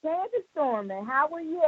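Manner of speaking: faint, far from the phone; barely audible. Real, not acted. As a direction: caller too quiet on the line. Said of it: "Candy, you sound kinda faint".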